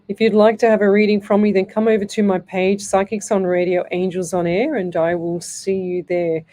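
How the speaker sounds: page plug. Acted. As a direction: pitch the page like an on-air plug. Plugs her page mid-show.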